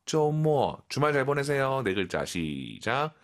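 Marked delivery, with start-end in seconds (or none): 0.0-0.8 쪼모 as a quick blend of zhou-mo; quick blended pronunciation. Shown as a demonstration. Teacher showing learners the word, quick blended pronunciation. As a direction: run the glides of 쪼모 together. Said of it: "빠르게 발음해서".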